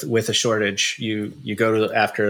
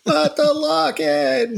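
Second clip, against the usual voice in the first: mock dramatic wail; 4 dB louder, much slower than usual. Mocking the lock-in worriers.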